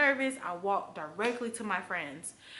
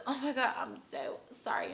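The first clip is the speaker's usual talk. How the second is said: lightly put-on sugary apology; fake apologetic voice; 5 semitones higher than usual. Apologizing to a coworker in a light fake-nice voice. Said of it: "in my, like, fake voice".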